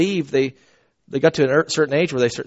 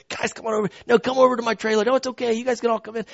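caring invitation; 5 semitones higher, 6 dB quieter, faster than usual. Retold or imitated. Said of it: "it's like genuine care and love".

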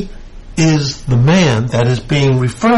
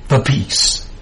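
whispered. Acted. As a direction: drop to a breathy whisper on the peace. Preacher repeats the key phrase again.

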